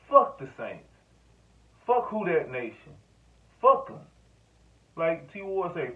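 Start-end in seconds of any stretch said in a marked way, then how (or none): 0.1-4.0 angry rant. Real, not acted. Ranting at Saints fans.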